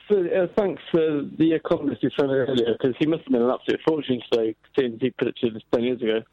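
crunchy speakerphone line; distorted phone audio; phone speaker. Real, not acted. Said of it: "I can't hear what he's saying".

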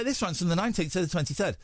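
lisping past a mouth ulcer; thick tongue, slurred s sounds; swollen tongue lisp. Shown as a demonstration. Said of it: "without the lisp".

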